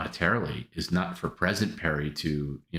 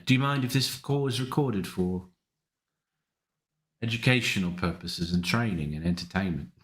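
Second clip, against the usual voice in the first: mock polite phone agent, raised voice; fake caller voice; 3 semitones higher than usual. Prank caller asks Perry to allow recording, mock formal. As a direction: read it like a scripted call-centre disclaimer. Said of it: "I was gonna do a voice mod".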